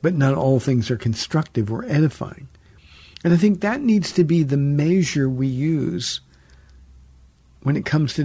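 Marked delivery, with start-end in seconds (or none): 0.0-2.5 a touch of sternness, measured; stern. Acted. Paul correcting the Corinthians, sternly. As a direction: lay down the limit with mild sternness. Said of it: "and then again sternly".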